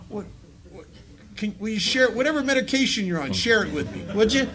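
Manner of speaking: gawk at him, pretending to beg for his meds; mock disbelief. Speaker mocking his own disbelief at a calm friend, incredulous.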